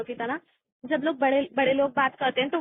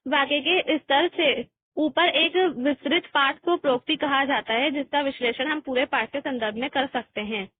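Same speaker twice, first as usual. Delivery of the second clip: textbook reading. Real, not acted. Reads definition from textbook.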